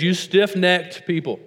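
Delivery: preacher rebuking a stubborn crowd; Stephen preaching. Acted. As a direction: read Stephen's charge with weight. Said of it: "He says".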